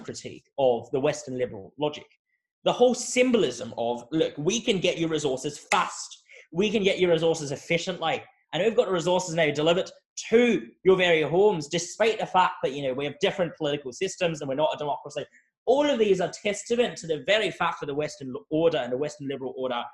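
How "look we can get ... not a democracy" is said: put-on Scottish accent. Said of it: "I said that message or slogan just in a Scottish accent".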